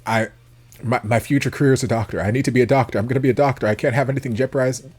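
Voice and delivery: hurried, worked-up mimicry of a nervous man; nervous imitation. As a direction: imitate someone anxiously insisting, words rushed. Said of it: "he's just very nervous about everything".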